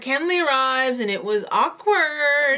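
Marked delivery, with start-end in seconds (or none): 1.1-2.6 slow, raised, louder sing-song; drawn-out awkward. Retold or imitated. Telling a co-host how Kenley arrived, drawn-out awkward. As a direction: stretch it out to underline the discomfort.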